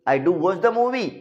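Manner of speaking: slow, weighted "do" in "I do watch the movie"; emphatic do. Shown as a demonstration. Teacher demonstrating emphasis, slow stress on "do". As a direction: say it slowly with "do" pressed. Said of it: "Do या does को starting में लगा देते हैं".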